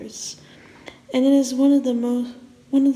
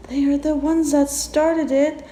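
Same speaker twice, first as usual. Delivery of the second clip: a touch raised, far from a scream; understated scream; mild mock scream; 4 semitones higher, 4 dB louder than usual. Narrator lets Alexander scream, only slightly raised. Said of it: "screamed Alexander".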